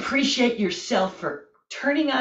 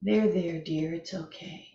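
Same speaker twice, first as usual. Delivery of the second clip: soothing. Pretend.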